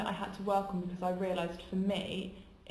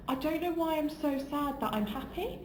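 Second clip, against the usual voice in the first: retold tearful confusion; 8 semitones higher than usual. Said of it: "I started crying".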